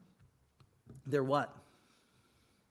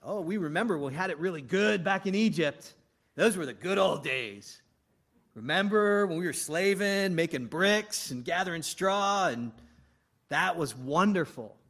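mock fond reminiscing; lightly hammed-up nostalgia; nostalgic grumbling; 4 dB louder than usual. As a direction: play the grumblers pining for old times. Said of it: "look at the grumbling and complaining".

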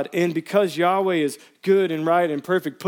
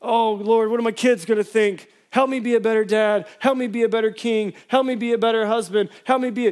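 higher, louder fretful pleading; mock self-focused prayer; 7 semitones higher, 4 dB louder than usual. Pastor mocking a prayer David didn't pray, fretful and pleading. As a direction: pray anxiously about your own mess. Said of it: "Does he say".

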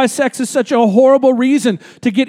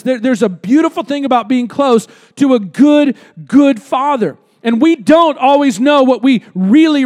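preaching; 3 dB louder than usual. Real, not acted. Preaching at full force.

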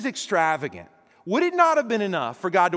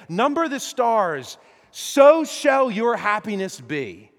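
insistent, louder and slower in places; God pressing Abraham to believe big; preacher voicing God's extravagant promise; 3 semitones higher, 6 dB louder than usual. God voiced urging Abraham to trust.

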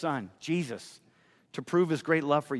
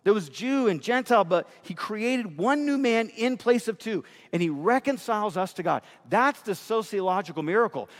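raised, driving sermon voice; fervent preaching; 3 semitones higher than usual. Acted. Pastor urging his church on, in fervent preaching. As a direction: preach it out to the congregation.

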